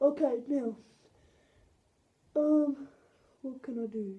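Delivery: rod puppet voice. A puppeteer speaking as the rod puppet, in Hinch puppet voice. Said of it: "[Hinch] is a um rod puppet".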